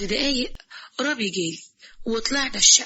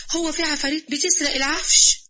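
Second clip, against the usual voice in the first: pitched-up, stunned question; can't believe ghosts steal furniture; shocked disbelief; incredulous; 6 semitones higher, 3 dB louder than usual. Acted.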